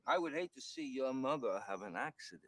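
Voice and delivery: put-on menacing New York ruffian accent. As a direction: deliver a veiled threat like a New York ruffian. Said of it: "old-timey New York ruffians".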